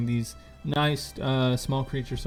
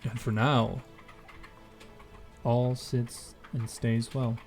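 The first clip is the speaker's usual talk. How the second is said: scene setting narration. A narrator's reading.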